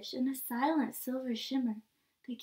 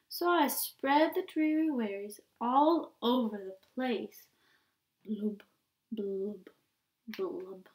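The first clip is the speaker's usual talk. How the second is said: sing-song mope of a pouting fish; droopy refrain, blubs trailing off; glum pout pout fish; 3 semitones lower than usual. Acted. Refrain again.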